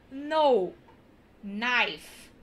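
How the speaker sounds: know and knife starting on the n; silent k. Shown as a demonstration. Teacher modelling the right know and knife. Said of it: "em inglês é diferente".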